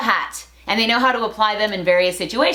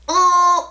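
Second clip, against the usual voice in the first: higher-pitched drawn-out "ugh"; disgusted groan; 7 semitones higher, 4 dB louder than usual. Real, not acted. Vlogger reacting to fire blowers ruining their lungs, disgusted groan.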